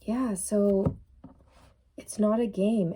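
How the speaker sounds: losing her voice, a bit hoarse. Real, not acted. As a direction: voice going hoarse. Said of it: "And my voice is going".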